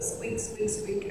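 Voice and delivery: squeaky mimic. Imitating squeak in the night.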